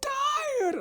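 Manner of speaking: put-on high, slow whiny old man; whining barber, breaking into a whimper at the end; complaining barber. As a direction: moan it like a tired hypochondriac. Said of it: "He'd be like".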